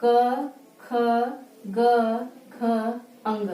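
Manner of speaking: ka kha ga gha nga, each said slowly and clearly; teacher modelling the letters for students; 1 clear recital of consonants. Shown as a demonstration. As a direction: recite the velar row deliberately, one sound at a time. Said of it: "आप भी हमारे साथ बोलिए".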